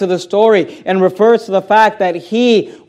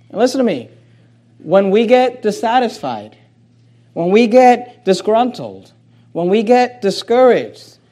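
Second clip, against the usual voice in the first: ordinary delivery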